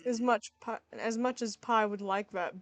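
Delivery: a hint of an easygoing joker; lightly voiced Sans. Sans declining Toriel's pie with a pun, easygoing. Plays Sans, the laid-back brother.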